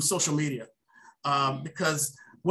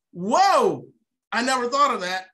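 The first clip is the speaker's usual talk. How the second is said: louder, higher amazed reaction; be struck by the idea; surprised whoa; 4 semitones higher, 5 dB louder than usual. Retold or imitated. Young tuner reacting to Mister Tucker, amazed. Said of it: "I'm like".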